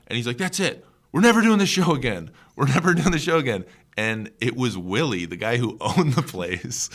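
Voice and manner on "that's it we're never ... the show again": high, loud mock outburst; imitating freak-out. Comic acting out the furious venue owner, mock freaking out. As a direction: rant like a bar owner losing it. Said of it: "the guy starts freaking out".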